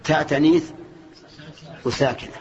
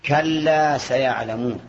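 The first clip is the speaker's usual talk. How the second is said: drawn out slowly like Quran recitation; much slower than usual. Shown as a demonstration. Teacher quoting the verse to students, slow recitation. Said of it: "Quranic verse quoted in a lesson".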